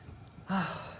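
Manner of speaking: soft breathy sigh; real sigh of relaxation; calmed sigh. Real, not acted. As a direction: exhale softly, savoring the calm. Savoring how calming fire is.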